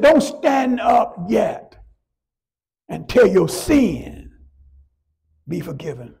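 slow, each word held and stressed; slow emphatic command. Acted. Jesus tells the paralyzed man to wait, slow and emphatic. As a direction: hold him back, word by word.

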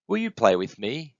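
lightly voiced young character; hopeful little one. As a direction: ask hopefully for a playmate. Lonely little one asks for playmate.

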